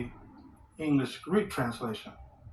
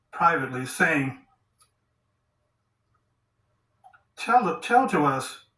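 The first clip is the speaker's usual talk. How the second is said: halting reading, a few words at a time; word-for-word scripture reading; slower than usual. Acted. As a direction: pick through the verse phrase by phrase with pauses. Reads word-for-word Greek translation.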